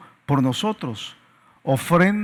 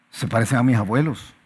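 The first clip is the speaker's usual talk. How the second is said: put-on griping child; 6 semitones lower than usual. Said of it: "dices tú, ¿verdad?".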